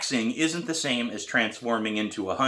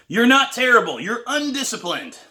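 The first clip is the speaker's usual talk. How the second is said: loud, higher call over the drumming; shouting over drums; 6 dB louder than usual. A narrator's reading. Teacher shouting reassurance over drumming, loud. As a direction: shout it across the kit. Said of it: "Pete shouts over my drumming".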